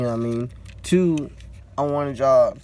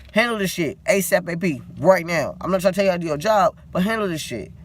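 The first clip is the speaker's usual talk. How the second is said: pitched up, indignant venting at the manager; heated rant; 3 semitones higher than usual. Real, not acted. Venting at a manager who won't act, heated and raised. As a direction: let the frustration spill out, voice climbing. Ranting about the absent manager.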